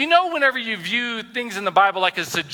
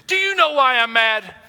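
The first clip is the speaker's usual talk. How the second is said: higher, louder mock spouse asking; mock spouse question; 7 semitones higher, 4 dB louder than usual. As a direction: put on a pointed spouse voice. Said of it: "this is all you gotta say".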